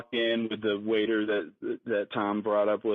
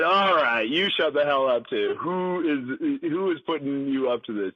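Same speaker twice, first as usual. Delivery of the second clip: mock angry yell; 2 semitones higher than usual. Retold telling off.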